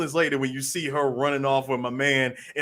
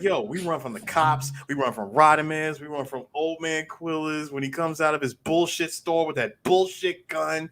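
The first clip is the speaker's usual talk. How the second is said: mildly heated listing rant; retold rant, building; 3 semitones higher than usual. Retelling the character's rant about running, mildly heated. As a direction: run through the grievances, mock fed-up. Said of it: "getting to his rant".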